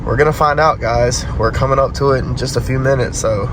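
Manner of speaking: stuffy nasal voice after being sick. Real, not acted. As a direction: speak through a blocked nose. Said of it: "if I sound nasally".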